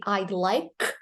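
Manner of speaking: "like" closed on a released K; K ending. Shown as a demonstration. Teacher shows learners the K sound, K ending. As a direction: finish "like" on K, with no E. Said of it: "you pronounce the K sound".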